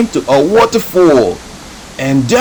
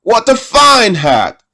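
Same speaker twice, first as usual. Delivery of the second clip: a bit higher bleating goat voice; 8 semitones higher than usual. Acted. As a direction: play the goat a little higher. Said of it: "said the goat".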